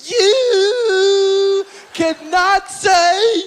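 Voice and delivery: Bill Cosby shouting, hammed-up anger; Bill pissed. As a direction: bellow it like a furious preacher. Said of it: "Bill got pissed and said".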